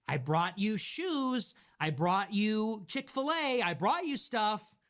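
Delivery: put-on slow, eager, goofy boyfriend offering gifts; grinning like an idiot. Boyfriend below the balcony calling up, slow goofy grin. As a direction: beam through it like a lovesick fool. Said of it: "grinning like an idiot".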